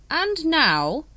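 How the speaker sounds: high, slow, assured leader's voice; smooth. A narrator's reading. Supreme Grand Master reassuring the brethren, smooth. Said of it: "Supreme Grand Master continued".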